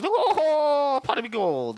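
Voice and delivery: high, hammed-up stereotypical Irish accent. Shown as a demonstration. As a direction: play the cliché Irish leprechaun. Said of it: "be stereotypical".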